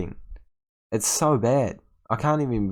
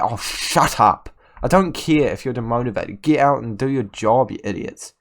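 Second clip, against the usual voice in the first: scolding the whole team; angry berating; 5 dB louder than usual. Real, not acted. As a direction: tell the players to get out and work. Berating his demotivated players.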